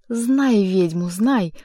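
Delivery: slow, loud witch's howl. A narrator's reading. Margarita attacking the informer, slow loud howl. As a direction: drag it out like a wailing witch. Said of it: "завывая".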